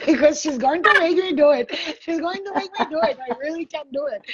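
put-on high, sing-song Indian accent. Psychic says the spirit is making her perform, Indian accent. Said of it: "she knows I do the Indian accent".

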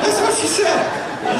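high and slow through laughter; drawn-out laughing repeat, still amused. Real, not acted. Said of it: "I'm not kidding".

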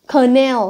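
Canal with stress on NAL; weak first syllable in "Canal", lean on the second. Shown as a demonstration. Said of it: "trọng âm sẽ rơi vào âm tiết thứ hai".

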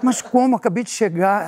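high, startled protest; mock disbelief at being sent back; he protests to the clerk, high and startled; baffled protest. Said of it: "Aí eu falei assim".

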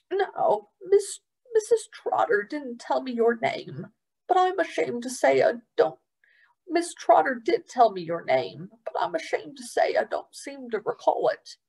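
ashamed, trailing apology; apologetic old man. Acted.

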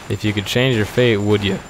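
put-on Scottish accent. Player quotes a film line to friend, mild Scottish accent. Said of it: "say good in a Scottish accent".

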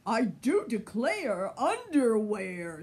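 loud, hearty pirate captain; lightly voiced pirate captain, loud. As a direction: boom it out like a jolly pirate. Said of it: "said Pirate Captain Hook".

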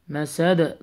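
مسد ending in a bounced, released d; qalqalah. Shown as a demonstration. Teacher models stopping on the word, bounced d in مسد. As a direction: let the d of مسد echo briefly. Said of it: "you need to apply the قلقلة".

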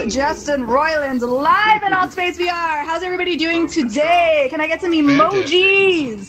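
ringing host announcement; event emcee. Acted. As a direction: welcome the crowd like a live host.

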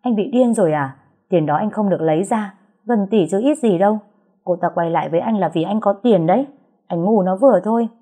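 sharp, rising furious scolding; indignant. Acted. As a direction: tear into him, outraged. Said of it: "tức tối nói".

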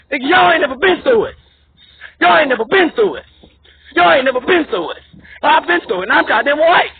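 heated, indignant protest; real indignant anger. Real, not acted. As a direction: hammer each repeat with real outrage. Indignant rant at Democrats builds.

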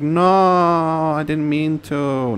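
loud, high cry of innocence; yelled denial at the game; mock protest. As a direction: protest loudly that it was an accident. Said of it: "I'm like".

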